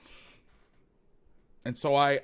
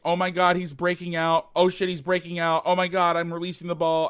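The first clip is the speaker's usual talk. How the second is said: lightly acted, slightly raised alarm; mock panic; 3 semitones higher, 4 dB louder than usual. Quarterback reacting as receiver breaks out, mock panic. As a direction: play a flustered realization mid-throw.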